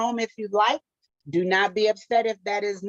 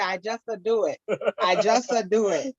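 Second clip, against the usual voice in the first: put-on Italian accent. Playful Italian after showing off.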